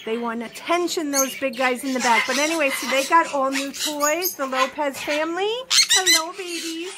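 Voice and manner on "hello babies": higher, tender hello to the babies; cooing to pets. Real, not acted. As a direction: coo at the birds like babies. Cooing at pet birds.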